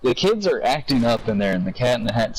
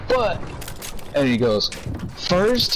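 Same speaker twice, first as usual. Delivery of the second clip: much higher drawn-out cat teaser; Cat in the Hat voice; 5 semitones higher, slower than usual. Retold or imitated. Retelling the cat's trick, a high showman cat.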